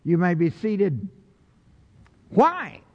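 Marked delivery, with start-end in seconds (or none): 2.3-2.8 booming question. Acted. Preacher's big rhetorical question.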